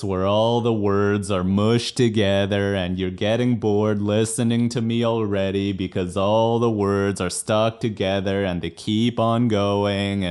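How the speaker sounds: words run together without breaks; droning legato talk; mushed-together speech. Shown as a demonstration. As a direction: let every word blur into the next. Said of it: "it would sound like this".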